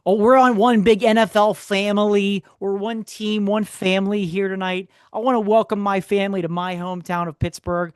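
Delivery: high-pitched mock stage accent; a rock singer. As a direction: imitate a rocker addressing his crowd in a put-on accent. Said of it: "what's this accent?".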